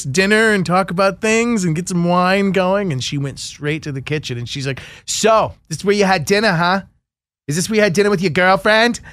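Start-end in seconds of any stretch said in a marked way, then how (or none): 5.0-9.0 put-on ex-girlfriend's accusing Long Island accent, lightly done; mock Long Island accent. Host imitating his jealous ex in a Long Island accent. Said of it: "What was that accent that you were doing?".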